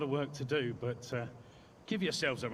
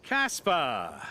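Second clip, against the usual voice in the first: calling out a name; 6 dB louder than usual. Acted. Calling across to a driver.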